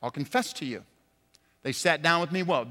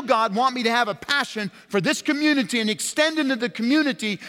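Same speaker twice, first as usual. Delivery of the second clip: voiced prayer; 4 semitones higher, 4 dB louder than usual. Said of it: "you need to be praying".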